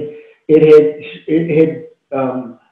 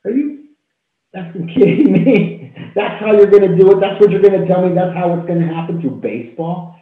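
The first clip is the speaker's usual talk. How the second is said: are you kidding me, pitched way up; incredulous outburst; 5 semitones higher than usual. Retold or imitated. Speaker to her guide, disbelieving and high. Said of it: "And I was like".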